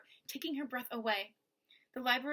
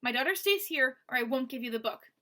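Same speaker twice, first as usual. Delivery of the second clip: louder, firm refusal; firm snapping father; 6 dB louder than usual. Acted. Mo refusing to let them take his daughter, firm loud snap. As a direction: lay down the condition hard. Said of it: "Mo snapped".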